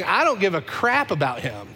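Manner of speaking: dismissive, rising to a high outburst; contemptuous denial. Acted. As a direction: spit it out with contempt. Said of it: "Peter is saying".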